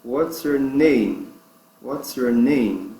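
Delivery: "name" drawn out at the end of a slow phrase; stress on NAME. Shown as a demonstration. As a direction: go slowly and lean on "name". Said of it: "A sílaba forte é". (frase devagar, com ênfase em "name")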